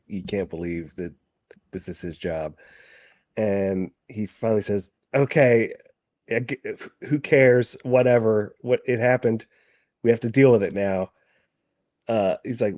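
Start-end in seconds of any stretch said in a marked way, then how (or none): 5.1-11.1 higher, louder giving-up exasperation; exasperated. Acted. Marquis fed up with his agents, moving on exasperatedly. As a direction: throw it away with raised, fed-up voice. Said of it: "exasperated fashion".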